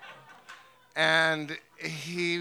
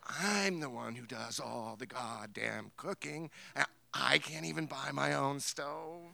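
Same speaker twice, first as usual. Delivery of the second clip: mock angry mother. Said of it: "She's like".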